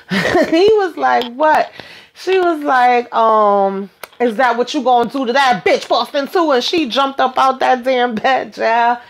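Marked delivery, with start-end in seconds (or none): 1.3-1.7 high, caught-out what; sudden startled question; man caught off guard by his girlfriend. Retold or imitated. 4.2-6.5 higher, springing the trap; accusing. Retold or imitated.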